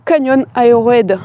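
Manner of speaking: "Canyon Aerohead" said the French way, h dropped, Aero run into "aréd"; "Canyon Aerohead" in plain French vowels, a self-mocking English attempt; French-accented "Canyon Aerohead", the h silent. Real, not acted. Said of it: "super bien prononcé avec mon accent".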